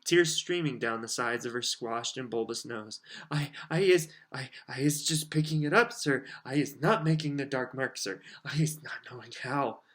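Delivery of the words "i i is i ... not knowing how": a lightly squeaky elf voice, pleading; a crying elf insisting she only picked it up; tearful house-elf. Acted. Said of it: "squealed Winky".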